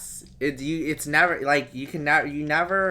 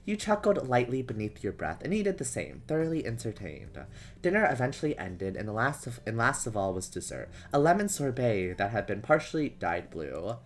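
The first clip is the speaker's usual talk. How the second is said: measured, even storybook reading; story narration. A narrator's reading. Reading a romance story to stream viewers, measured narration. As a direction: read it out as an unhurried narrator.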